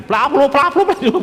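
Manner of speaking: high rapid mock squabble babble; imitated quarrel noise. Preacher mimicking husband and wife suddenly bickering, mock babble. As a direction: sputter a cartoon argument.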